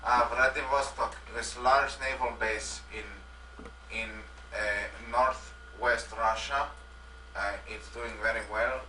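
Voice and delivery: lightly put-on Russian accent; a hint of a Russian leader. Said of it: "I am Russian Boris".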